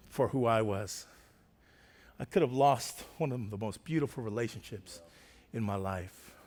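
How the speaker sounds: low, grave sermon close; sober, reflective appeal to the church; solemn preaching. Real, not acted. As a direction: drop the voice and let pauses weigh.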